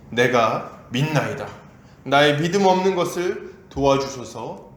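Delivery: normal talking voice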